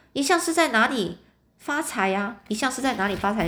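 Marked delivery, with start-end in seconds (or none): 0.1-2.4 rising, courtly inquiry in a changed voice; a put-on old-fashioned greeting. Short red-haired clerk politely asks the pawnbroker his trade, rising. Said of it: "啊，叶尔逊先生".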